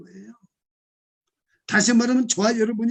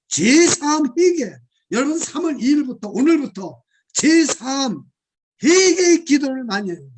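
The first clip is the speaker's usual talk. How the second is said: fervent exhortation; 3 semitones higher, 4 dB louder, slower than usual. Acted. Preacher exhorts congregation.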